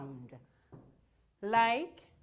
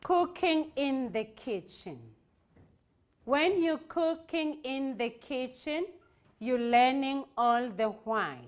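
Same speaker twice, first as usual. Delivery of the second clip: rhythmic poem reading. Shown as a demonstration. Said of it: "we read it with rhyme and rhythm".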